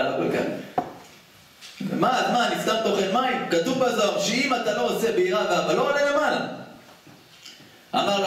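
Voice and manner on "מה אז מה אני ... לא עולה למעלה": high, whiny mock-weeping plea; mock crying. Student weeps to the Chofetz Chaim, high hammed-up whine. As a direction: wail it like a tearful student, half in jest. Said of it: "בא התלמיד של החפץ חיים בוכה".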